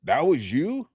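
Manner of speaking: high, loud shocked double take; gym-goer stunned by the before picture; shocked disbelief. Retold or imitated. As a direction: react like you can't believe the photo. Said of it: "And they go".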